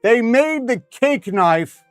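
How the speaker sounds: high, loud, drawn-out outburst; excited exclamation. Real, not acted. Excited reaction to the cake knife.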